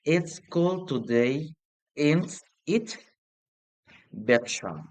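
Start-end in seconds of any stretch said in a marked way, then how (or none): 0.1-3.0 tag "It's it?" rising up at the end, questioning; rising tag, not sure; unsure rising tag. Shown as a demonstration. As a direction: ask "It's it?" with an upward, doubtful lift. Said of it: "You're not sure".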